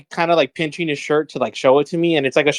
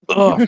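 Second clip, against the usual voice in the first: burp breaking into the talk; real burp; 5 semitones higher, 4 dB louder than usual. Real, not acted. Storyteller pausing at the gym anecdote for a burp, real burp. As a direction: let a burp out mid-story. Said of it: "I feel a burp coming on".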